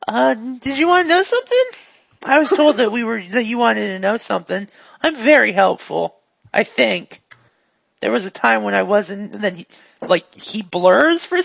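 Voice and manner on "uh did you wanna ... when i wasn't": lightly voiced eager non-player character; a hint of a chipper, addled helper; glitchy helpful character. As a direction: offer help in a slightly raised character voice. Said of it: "he looks at you and he goes".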